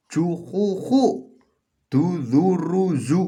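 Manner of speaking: juhuhu, duzuruzu slowly, every syllable ending in u; demo dhammah reading. Shown as a demonstration. Teacher demonstrating dhammah to students, slow and high. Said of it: "semuanya jadi u kalau di atasnya ada".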